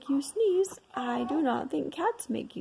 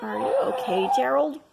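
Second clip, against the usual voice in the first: laughing; 7 dB louder, faster than usual. Acted. Laughing concern.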